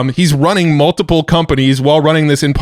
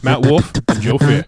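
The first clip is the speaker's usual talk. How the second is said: DJ voice. Pretend. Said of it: "That was my D J voice".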